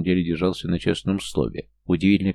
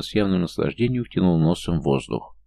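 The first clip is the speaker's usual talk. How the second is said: usual speaking voice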